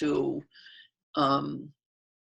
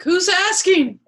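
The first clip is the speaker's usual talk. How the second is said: put-on high, loud Jewish-accented quip; 13 semitones higher, 6 dB louder, slower than usual. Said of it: "Very Jewish voice just came up".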